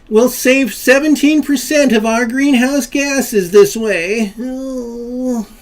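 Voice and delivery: high, loud hammed-up wail; mock crying. Host lamenting cap and trade legislation, mock tearful wailing. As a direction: wail it out slowly like fake sobbing.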